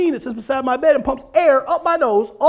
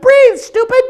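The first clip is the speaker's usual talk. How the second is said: much higher, louder snapped yell; sweet little voice, ironic; 14 semitones higher, 6 dB louder than usual. Retold or imitated. Wife yells at husband who stopped breathing, high loud yell. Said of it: "in her sweet little voice".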